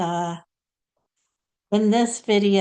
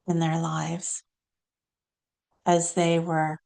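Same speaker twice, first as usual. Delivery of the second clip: lightly voiced saint, short phrases with long pauses; Saint Clare. Channelled saint telling listeners about her early life, measured and halting. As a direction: recount it deliberately as a channelled saint. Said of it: "now we're gonna hear from Saint Clare".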